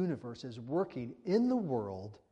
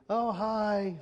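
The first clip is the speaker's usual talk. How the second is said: a bright, high mock-cheerful "Oh, hi"; cheerful greeting; 7 semitones higher than usual. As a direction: wave back cheerfully at the passing boat. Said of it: "he waved back very cheerfully".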